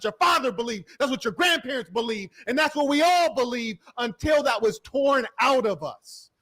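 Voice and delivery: rising to a passionate shout; impassioned shout. Real, not acted. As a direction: shout it out as the climax of the rant. Impassioned rant about culture.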